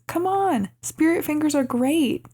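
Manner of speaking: high-pitched imitated call after someone. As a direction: mimic Torrance pleading as she walks off. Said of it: "Torrance calls after her".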